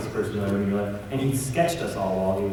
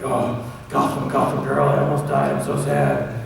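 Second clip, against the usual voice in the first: Bruce Wayne; 3 dB louder than usual. Acted. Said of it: "Bruce was sitting there".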